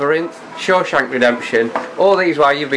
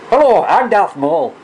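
put-on Scottish accent; 5 semitones higher than usual. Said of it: "I'm a Scottish, Scottish Sith Lord".

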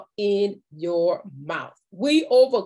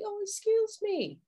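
polite; 4 dB quieter than usual. Shown as a demonstration. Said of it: "just let them know politely".

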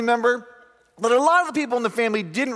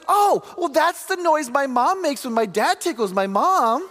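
put-on higher, innocent little girl voice; lightly voiced six-year-old; child's voice; 6 semitones higher than usual. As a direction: play the innocent first grader. Child answering teacher.

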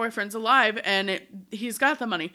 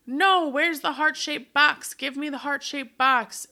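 insistent demand; 5 semitones higher than usual. Retold or imitated. Acting Rita's insistent demand.

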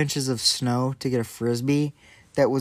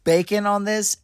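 excited; 6 semitones higher, 3 dB louder than usual. Real, not acted. Excited about bacon idea.

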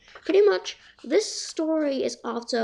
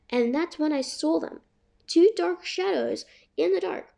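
story narration. Acted. Reads the book aloud.

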